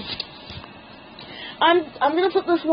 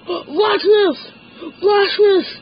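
excited shout; 5 semitones higher, much slower than usual. Real, not acted. Excited during the challenge.

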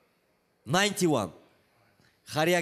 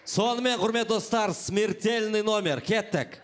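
higher, drawn-out showman announcement; booming circus ringmaster; 4 semitones higher, slower than usual. Acted. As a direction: announce a death-defying act. Host announces dance number.

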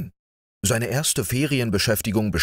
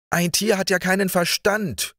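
high, sulky and embarrassed; half sulking; 11 semitones higher than usual. A narrator's reading. Georg answers the student, sulky and embarrassed. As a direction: sulk it out, half ashamed. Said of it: "halb schmollend, halb verlegen".

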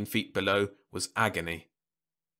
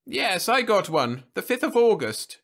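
politely impatient; 12 semitones higher, 7 dB louder than usual. A narrator's reading. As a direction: humor him, but barely. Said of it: "she said impatiently".

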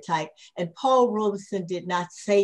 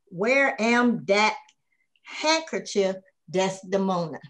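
slow, slightly raised mock Southern dialect quote; mock stereotyped dialect. Scholar quoting critics' racist caricature of Robeson, slow mock dialect.

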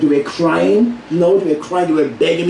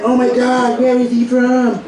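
high, surprised audience voice, dragging the question; mock puzzled audience; 3 semitones higher than usual. Comedian mimicking a puzzled audience, surprised and high. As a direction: play a baffled crowd member. Audience asking where he's from.

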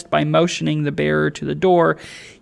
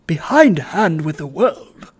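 terrible distinctness; 4 dB louder than usual. Acted. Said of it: "in a tone of terrible distinctness".

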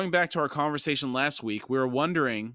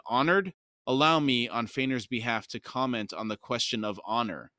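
sharp interruption. Acted. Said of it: "Bruchalion interrupted".

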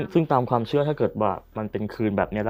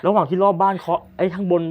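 raised, louder spooked reaction; spooked, goosebumps; 7 semitones higher, 6 dB louder than usual. Real, not acted. Host getting goosebumps from the ghost story, spooked and excited. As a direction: react with a real shiver of thrill. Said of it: "นี่ขนลุกเหมือนกัน".

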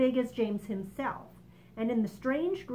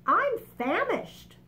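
high, slow and louder, drawn out with hunger; famished grasshopper; 11 semitones higher, 5 dB louder, slower than usual. Acted. Old green grasshopper tells the others, slow and high. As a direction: stretch it out like a starving old insect. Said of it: "the old green grasshopper said".

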